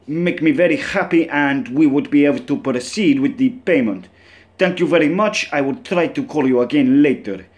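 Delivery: mock Russian accent, formal phrasing. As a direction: play a scammed Russian caller, hamming up the accent. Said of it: "Not sure how my Russian accent's gonna sound".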